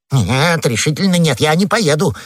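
emphatic, flustered no; firm refusal. Acted. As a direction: refuse with rising agitation. Frightened husband refuses outright.

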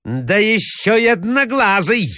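high-pitched jeering cry; angry cry. A narrator's reading. Hostess adding an insult to the prince, crying out angrily. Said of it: "закричала Марья Александровна".

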